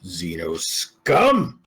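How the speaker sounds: slow drawn-out snarl; growling slowly. Acted. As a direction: spit the words with contempt. Character curses the alien foe.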